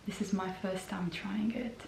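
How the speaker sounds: breathy whispered aside to the camera. Real, not acted. Trying a new gloss on camera, she whispers to viewers. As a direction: let it slip out as a hushed confidence.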